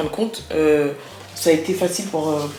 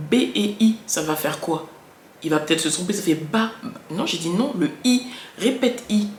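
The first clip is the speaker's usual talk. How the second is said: firm, higher coaching voice; mother coaching child; 4 semitones higher than usual. Shown as a demonstration. A mother drilling her child on B and I, firm and patient. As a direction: lead a small child through the syllable. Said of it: "mimer fort".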